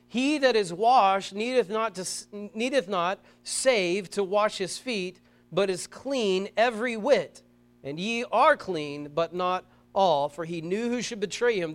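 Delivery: slow measured verse read; slow King James reading; scripture reading. Acted. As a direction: read it deliberately. Reads scripture slowly.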